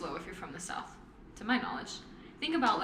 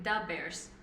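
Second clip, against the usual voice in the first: put-on Chicago accent; 3 semitones lower than usual. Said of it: "Chicago accent".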